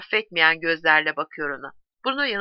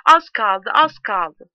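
louder narrated call; shouting; 2 semitones higher, 7 dB louder, much slower than usual. A narrator's reading. Şabot hangs from the wagon door, shouting. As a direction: call out the good news. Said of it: "gülüyor, bağırıyor".

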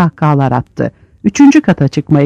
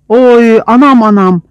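loud, high wail of pain; cry of pain; 6 semitones higher, 4 dB louder than usual. Acted. A prisoner being beaten wails loudly in pain. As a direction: howl as the blows land.

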